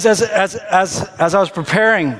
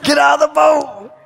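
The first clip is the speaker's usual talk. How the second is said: higher, laughing call rising to a shout; excited Jesus; 7 semitones higher, slower than usual. Acted. Jesus cheers Peter out of the boat, laughing shout. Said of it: "He's like".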